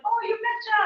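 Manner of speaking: high, playful Minnesota "you betcha"; Minnesota accent. Retold or imitated. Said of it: "and then I'm like".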